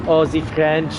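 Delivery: a hammed-up French accent, lightly done; bad fake French accent. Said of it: "pretty bad fake French from France speaking English accent".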